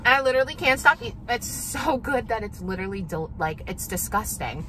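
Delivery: talking with a mouth full of food; words round a mouthful. Real, not acted. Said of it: "You realize you're talking with your mouth full".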